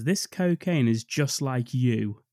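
slow, drawn-out quote of a film villain; deliberate, stretched-out movie line delivery; Billy Drago. Retold or imitated. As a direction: linger on the words, very slowly. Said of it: "What he actually says is".

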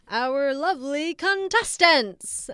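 booming, drawn-out pageant host voice. Retold or imitated. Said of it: "the way he says contestants".

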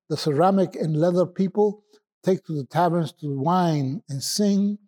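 measured, declaimed poetry reading with deliberate pauses; poem recitation. Acted. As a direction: recite it phrase by phrase, drawing out line endings. Reads poem aloud on request.

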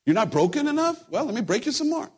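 high-pitched, hammed-up taunting; mock cruel God. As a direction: parody a punisher relishing the job. Acting a cruel God breaking people.

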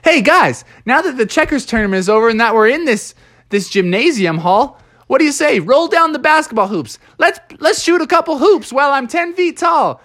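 high excited skunk; excited rallying call; giant Stinky. Acted. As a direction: giant skunk calling for basketball. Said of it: "Stinky was like".

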